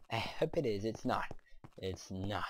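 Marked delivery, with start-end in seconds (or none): 1.8-2.4 breathy whispered repeat, no voice. Shown as a demonstration. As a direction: whisper it to yourself. Whispered repeat of plain line.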